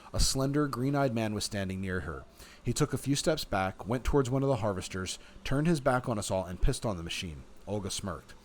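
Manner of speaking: measured, expressive read-aloud; story narration. A narrator's reading. Player reading the game's story to viewers, story narration. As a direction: narrate it like an audiobook.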